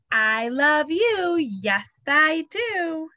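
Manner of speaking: slow, sweet I love you; tender. Acted. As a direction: say it lovingly to a child. Finger says I love you.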